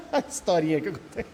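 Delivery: amused, words broken by laughter; laughing. Real, not acted. Speaker to Robertinho before telling a little story, laughing.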